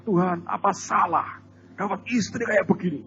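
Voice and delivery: imitating a complaining prayer. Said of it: "Sampai dia berkata".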